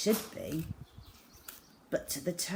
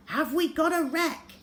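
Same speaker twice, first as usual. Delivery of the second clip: urgent cry; 9 semitones higher than usual. A narrator's reading. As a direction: call out, hoping it's true. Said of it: "cried Father".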